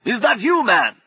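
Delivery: high, loud call. Acted. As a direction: shout down to find him. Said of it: "the voice came from overhead".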